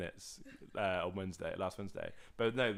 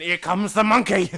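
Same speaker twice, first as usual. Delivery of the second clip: high and loud, belted out; loud put-on voice, half laughing; mock announcement; 10 semitones higher, 17 dB louder than usual. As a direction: ham it up as a daft shout. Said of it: "and he went".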